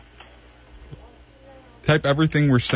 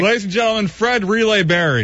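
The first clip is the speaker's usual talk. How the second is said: mock announcer; 6 semitones higher than usual. Co-host introducing Fred before the break, mock announcer. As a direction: play the announcer, stretching out the name.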